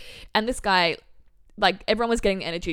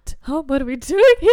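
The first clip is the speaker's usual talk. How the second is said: exasperated; 6 semitones higher, 9 dB louder than usual. Retold or imitated. Exasperated at the chaos.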